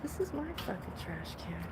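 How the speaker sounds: low, soft grumpy raccoon voice; a cranky trash-can raccoon, voiced low and soft; voicing the raccoon. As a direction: sink low and quiet as the territorial raccoon. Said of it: "He's like".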